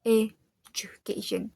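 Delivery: slow education with short "juh"; correct blended syllable. Shown as a demonstration. Student models the correct word, slow education with blended "ju". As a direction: draw out education, keeping the middle "ju" blended and brief. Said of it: "the correct pronounce is".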